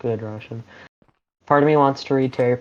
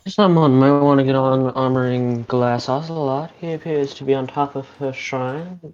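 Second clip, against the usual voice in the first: mock-grand storyteller narration; game narration. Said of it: "Maybe I should narrate a Nightfall game".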